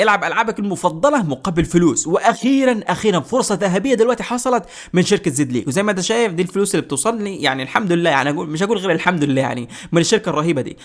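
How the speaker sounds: lively promotional pitch; upbeat, emphatic sponsor plug; sponsor ad read. Shown as a demonstration. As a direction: sell the app with energy.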